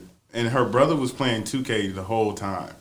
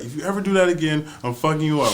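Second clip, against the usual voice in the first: quick, higher-pitched mock threat; upset brother; 5 semitones higher, faster than usual. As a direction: imitate an angry brother snapping. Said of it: "Nigga got upset".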